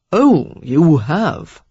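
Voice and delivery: slow, drawn-out sulky retort; sullen, dragged-out sneer. Acted. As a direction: sulk at her announcement. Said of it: "the sulky curve of his lips deepening".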